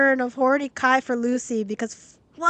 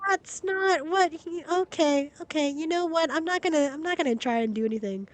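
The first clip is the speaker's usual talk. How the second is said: acted giving up; 3 semitones higher, 7 dB quieter than usual. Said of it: "But Lu-, I'm like".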